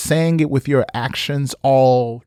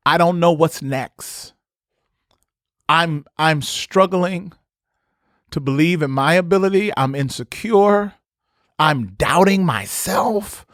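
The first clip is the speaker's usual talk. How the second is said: higher, halting honest admission; mild pleading confession, pitched up; vulnerable confession; 5 semitones higher than usual. Retold or imitated. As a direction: say it like finally admitting defeat. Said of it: "just simply say".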